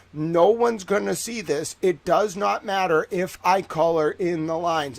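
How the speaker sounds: lightly voiced stubborn kid; defiant six-year-old. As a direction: spell it out to the teacher, mock-firm. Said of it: "saying to the teacher as a six-year-old".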